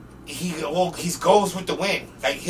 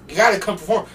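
raised, urgent voice of an exasperated manager; mad manager; 6 semitones higher, 10 dB louder than usual. Retold or imitated. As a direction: imitate calling out for a missing performer. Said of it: "his manager was so mad".

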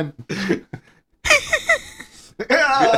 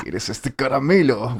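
creepy voice; 4 semitones lower, slower than usual. Pretend. Creep offering candy.

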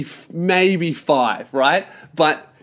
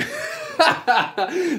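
high burst of laughter; 13 semitones higher, 4 dB quieter than usual. Real, not acted. Laughing at own joke.

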